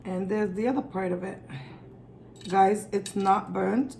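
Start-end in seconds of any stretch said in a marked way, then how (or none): 2.5-4.0 slow, firm "it's not burnt", NOT pressed; stress on NOT burnt. Real, not acted. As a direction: drag out "Guys, it's not burnt" insisting. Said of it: "even if it looks like it is".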